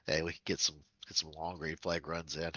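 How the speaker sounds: blocked nose from a cold; stuffy nose. Real, not acted. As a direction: talk through a stuffed-up nose. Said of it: "sorry if I sound stuffy".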